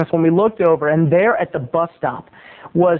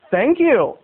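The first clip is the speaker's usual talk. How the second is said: slightly raised, earnest thanks; unsarcastic thanks; 5 semitones higher than usual. Retold or imitated. Stretching man answers teasing kids, sincerely. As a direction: imitate someone taking it as a compliment. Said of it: "He literally took it as a compliment".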